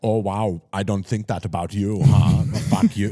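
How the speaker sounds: odd put-on German accent in a mean female voice. Impersonating a mean lady at a thrift store, in a weird german impression. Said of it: "some like weird German impression".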